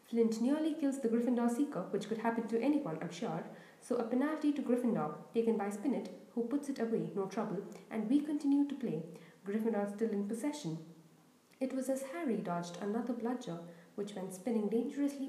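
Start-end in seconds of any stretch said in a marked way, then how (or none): 0.0-10.8 lively sports commentator calling the play; eager Quidditch commentator; match commentator. Acted. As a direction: call the match like a schoolboy announcer. Lee commentates.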